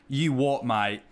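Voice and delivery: put-on British threat; hammed-up British "mate"; British accent. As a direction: say it in a broad mock British accent. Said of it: "I've pretty well mastered".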